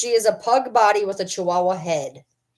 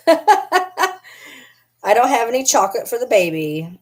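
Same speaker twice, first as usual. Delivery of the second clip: put-on slow, louder cooing baby talk; 2 semitones higher, 5 dB louder, slower than usual. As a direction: coo to the dog like to a toddler.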